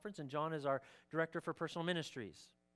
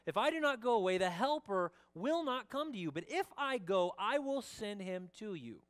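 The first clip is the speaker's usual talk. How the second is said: raised, declarative Bible-reading voice; emphatic scripture reading; 4 semitones higher than usual. Acted. Pastor reads Jesus' promise of the helper, emphatic. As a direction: proclaim the verses, weighting key words.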